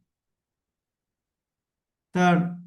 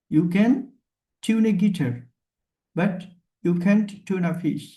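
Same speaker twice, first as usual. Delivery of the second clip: slow repeated pun; much slower than usual. Shown as a demonstration. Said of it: "মনে হচ্ছে কি যে tune a fish".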